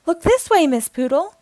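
high, loud call over a crowd; photographer shouting. A narrator's reading. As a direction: call out to the star from the throng. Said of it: "shouts a photographer".

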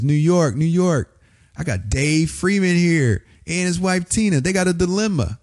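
high-pitched radio announcer to the whole city; radio host on air. Retold or imitated. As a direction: address New York over the mic, drawing out the names. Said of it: "He starts radio station like this".

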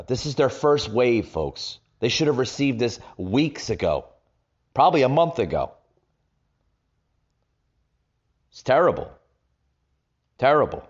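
speaking in an echoey room. Real, not acted. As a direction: voice bouncing off bare walls. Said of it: "I wanna apologize for the echoing".

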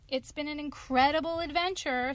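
put-on high, bright boy hero; small clever boy talking up to a wolf; little boy voice. Tom Thumb speaking.

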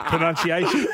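Pronunciation with every syllable crisply sounded; over-crisp pronunciation. Shown as a demonstration. Host mocks his own radio voice: over-crisp Pronunciation. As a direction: lean on each syllable of Pronunciation like an announcer. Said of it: "How he pronounced pronunciation".

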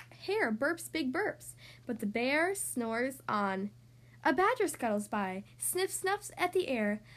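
lively, sing-song picture-book narration; reading to children. A narrator's reading. Podcast host reading a story to young listeners, storytelling voice. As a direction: read it like a bedtime story for little kids.

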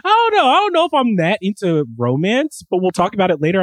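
mock reluctance, pitched high; lightly hammed-up dodging, high and wavering; noncommittal man act. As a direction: imitate a guy hedging about romance. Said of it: "I did the very, like, man thing".

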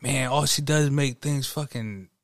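mock coworker trash talk. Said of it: "She's like".

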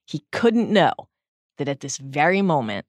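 solemn audiobook narrator; story narration. A narrator's reading. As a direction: read the chapter's ending with gentle gravity. Reads closing paragraph aloud.

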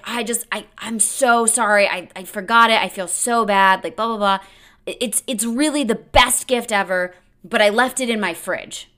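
lightly voiced guy over-apologizing; apologetic date voice.

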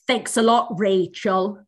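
put-on slowly drawn-out sarcastic little girl. Little girl scolding her older sister over an unplugged iPad, slow mimicry. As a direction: lightly mimic a fed-up kid sister, dragging the words. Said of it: "it's a little tiny girl".

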